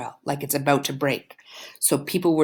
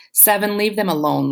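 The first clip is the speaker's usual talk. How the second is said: a touch of a whine, pitched up; whining; 4 semitones higher than usual. Acted. Girlfriend whining at her boyfriend to leave the couple alone, lightly pitched up. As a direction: plead with him in a mild whine. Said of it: "Layla whines behind them".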